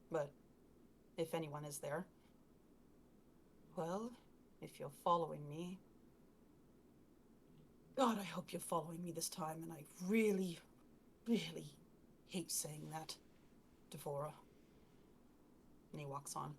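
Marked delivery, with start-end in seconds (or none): 4.6-14.3 quiet, hushed whisper. Narrating a character walking alone down a dark street, whispering to no one. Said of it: "he whispers".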